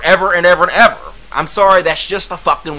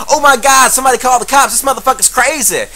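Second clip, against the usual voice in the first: mock screaming; 6 semitones higher than usual. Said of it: "They were screaming".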